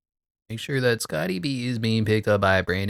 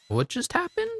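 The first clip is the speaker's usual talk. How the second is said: shocked disbelief; 6 dB quieter than usual. Real, not acted. Disbelief at the play.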